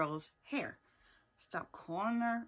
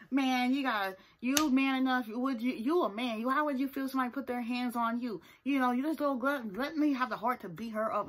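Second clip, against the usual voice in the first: higher, pressing retelling of a lecture; imitated lecture; 5 semitones higher than usual. Chance confronting Tokyo, lecturing. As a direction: push it like confronting someone, raised voice.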